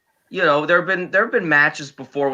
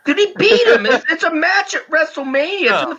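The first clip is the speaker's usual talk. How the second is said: heated argument. Real, not acted. Heated argument about a match.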